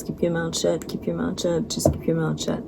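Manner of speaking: quietly telling herself to stay silent; hushed inner reminder, repeated; quiet self-talk. Retold or imitated. Inner self-talk during bullying.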